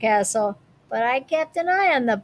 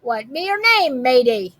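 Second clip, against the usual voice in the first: pirate voice. Acted. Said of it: "the head pirate asked".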